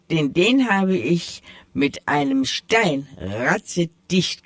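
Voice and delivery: a hint of a proud tomcat setting things straight; sly tomcat. The tomcat corrects the mice, lightly voiced and proud.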